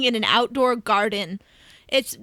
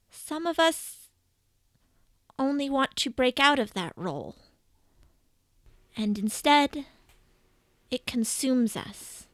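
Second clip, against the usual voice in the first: lightly voiced serene goddess, measured and unhurried; a calm elder deity explaining fate, gently; goddess Bast. GM voicing Bast to the adventurers, a light serene goddess voice. Bast's speech resumed.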